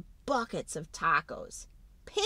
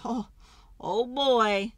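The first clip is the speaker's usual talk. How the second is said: put-on laughing oh boy; 2 semitones higher, 6 dB louder, slower than usual. Tummy troubles joke.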